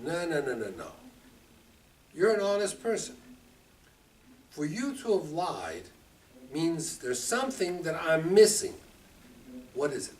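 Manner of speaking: calm him down kindly; reassuring king. Acted. Avimelech gently reassuring Avraham.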